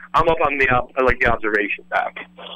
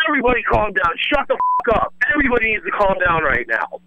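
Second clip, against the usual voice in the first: raised, higher voice ordering the crowd to calm down; commanding yell; 5 semitones higher than usual. Retold or imitated. Yelling at the panicking crowd to calm down, raised and higher. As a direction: bark the order over the panic. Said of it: "And I just yell".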